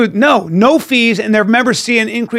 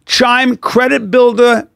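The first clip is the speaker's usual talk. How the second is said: slow, deliberate ad read; 3 semitones higher, much slower than usual. Acted. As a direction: spell out each word slowly. Reading ad slowly.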